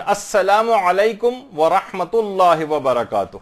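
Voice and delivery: السلام علیکم with the الف لام clearly sounded, slowly; slow correct recitation. Shown as a demonstration. Teacher showing the right final salam. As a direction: recite the full greeting carefully. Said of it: "اس کے اندر بھی".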